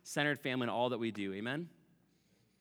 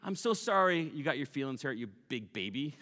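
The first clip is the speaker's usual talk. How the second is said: mock fake apology. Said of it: "It's like saying".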